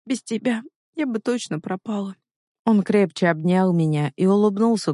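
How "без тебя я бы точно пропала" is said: soft, higher-pitched heroine's voice; small, high, soft admission; tender confession. A narrator's reading. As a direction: confide it softly, pitched up. Tearful heroine clinging to his shoulder.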